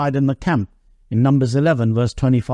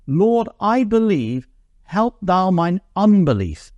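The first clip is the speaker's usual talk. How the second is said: tearful plea; 5 semitones higher, slower than usual. Retold or imitated. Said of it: "cried out and said with tears".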